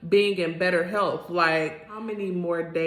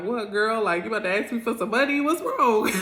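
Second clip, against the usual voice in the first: rising higher into a startled What's wrong; mock surprised girl; 4 semitones higher, faster than usual. Answering her church friend's serious opener, mock alarmed and rising. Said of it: "And I'm like".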